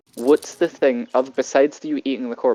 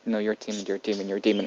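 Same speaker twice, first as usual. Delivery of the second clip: low, softer mutter of a frightened half-elf, repeated; scared mutter; 4 semitones lower, 8 dB quieter, much faster than usual. Acted. Frightened half-elf muttering to the others about the demon. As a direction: mutter it under your breath in fear. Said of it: "muttering to".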